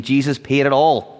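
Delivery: hymn line lifted up loud and bright. Retold or imitated. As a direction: proclaim it like a hymn refrain. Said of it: "We were just singing".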